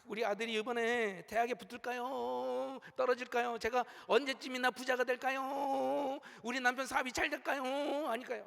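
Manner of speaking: hammed-up wheedling questions to a fortune-teller; anxious fortune-teller's client. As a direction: imitate a worried client on an even, plaintive tone. Voicing clients consulting a fortune-teller.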